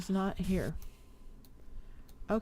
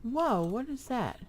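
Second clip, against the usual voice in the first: startled gasp, drawn out and higher; surprised; 5 semitones higher, slower than usual. Real, not acted. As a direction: caught off guard by a sudden dragon. Dragon suddenly flies over her.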